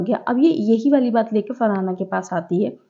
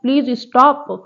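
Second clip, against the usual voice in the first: imitating her snapping at Farhana in front of everyone; half-hearted shout of please stop; retold yell; much slower than usual. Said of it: "इतनी तेज चिल्लाया था".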